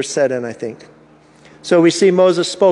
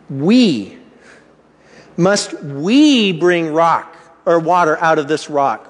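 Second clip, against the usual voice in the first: Moses scolding; slower than usual. Retold or imitated. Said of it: "what does Moses say here?".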